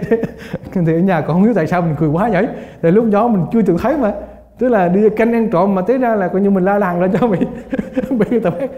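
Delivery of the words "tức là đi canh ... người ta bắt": words broken up by laughter; real amused laughter mid-sentence; laughing while talking. Real, not acted. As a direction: chuckle through the punchline of the story. Laughing while retelling funny story.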